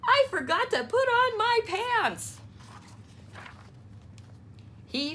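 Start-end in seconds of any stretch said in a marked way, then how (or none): 0.0-2.4 higher little-frog voice; Froggy confessing to mother; sheepish Froggy. A narrator's reading. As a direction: admit it sheepishly. Froggy admits mistake.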